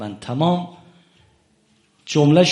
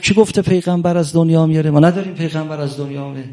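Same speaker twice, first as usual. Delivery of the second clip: fast, raised mock yell; retold shout; 3 semitones higher, faster than usual. Omar yelling at the companions, a fast mock shout. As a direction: bark the denial at the crowd, quick. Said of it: "داد زد".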